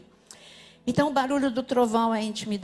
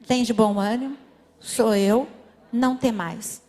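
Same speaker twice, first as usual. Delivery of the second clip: verse repeated with more force, louder; 3 semitones lower, 5 dB louder than usual. Shown as a demonstration. Pastor leading the church in the verse, louder. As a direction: say it again, louder and firmer. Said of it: "Vamos repetir?".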